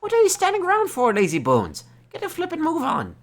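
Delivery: high, loud mock telling-off; scolding shout. Gruff man shouts at the boy for dawdling, high and loud. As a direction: yell at him to hurry up, hammed-up.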